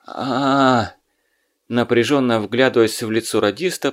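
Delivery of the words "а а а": weak recognizing groan. Acted. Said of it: "попытался улыбнуться Сорокин".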